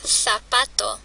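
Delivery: "zapato" with a TH at the start; Spain Spanish Z. Shown as a demonstration. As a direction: say the Z of "zapato" with tongue between teeth. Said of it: "en el español de España".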